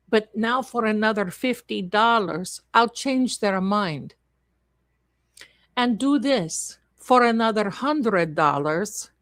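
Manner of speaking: lightly voiced scheming psychic; hammed-up fortune teller working a client; gypsy fortune teller. Fortune teller upselling a gullible client, lightly put-on gypsy role.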